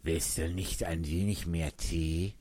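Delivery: earnest. Acted. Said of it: "sehr ernsthaft".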